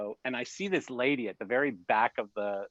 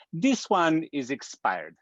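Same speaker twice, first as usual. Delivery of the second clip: high, impatient officer voice, slowing on expired; higher pitched mock officer snapping next; curt customs officer; 5 semitones higher, 5 dB louder, much slower than usual. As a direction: brush him off like a bored official. Customs officer dismissing him.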